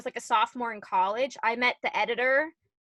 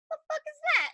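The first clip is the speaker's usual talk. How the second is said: much higher, incredulous retold reaction; shocked disbelief; 14 semitones higher, faster than usual. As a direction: throw it up high in mock disbelief. Retelling shock at the news.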